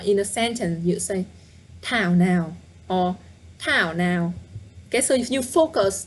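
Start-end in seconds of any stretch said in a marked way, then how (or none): 1.8-2.5 Tao emphasized, now lighter; stress on Tao. Shown as a demonstration. Teacher showing the fast sentence form with Tao stressed. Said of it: "you emphasize on the first word". 3.6-4.3 Tao emphasized, now lighter; stress on Tao. Shown as a demonstration. Teacher showing the fast sentence form with Tao stressed. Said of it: "you emphasize on the first word".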